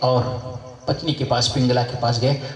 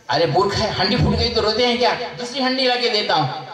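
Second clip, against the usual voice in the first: higher-pitched mock scolding; 5 semitones higher than usual. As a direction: tell the fool off, pitched up. King scolds man over pot. (ऊँचे सुर में डाँटते हुए)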